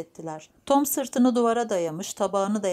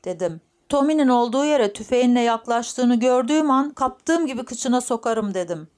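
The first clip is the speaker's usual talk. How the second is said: louder boasting old man, lightly acted; lightly voiced feisty grandfather; 4 semitones higher, 6 dB louder than usual. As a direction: brag like a cocky grandpa, a little raised. (hafifçe canlandırılan kavgacı, övüngen dede)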